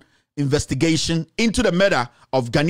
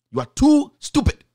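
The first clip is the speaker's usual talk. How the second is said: angry insult; 7 semitones higher than usual. Real, not acted. Scolding the politician directly.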